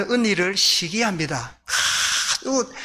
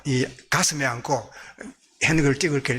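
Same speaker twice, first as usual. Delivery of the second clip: usual speaking voice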